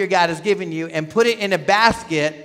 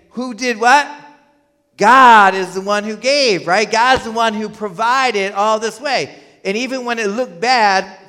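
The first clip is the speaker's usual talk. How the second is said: higher preaching voice with a loud opening; forceful preaching; 4 semitones higher, 5 dB louder than usual. Real, not acted. Preacher telling the congregation who provided, forceful. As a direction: drive each point home.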